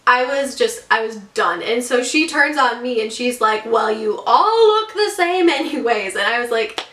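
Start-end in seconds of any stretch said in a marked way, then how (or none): 3.7-6.2 drawn-out, dismissive imitation of a rude agent; mock snide retort. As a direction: imitate a dismissive comeback, stretching it out.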